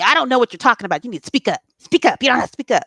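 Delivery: berating shout. Retold or imitated. Mocking the people who berated her.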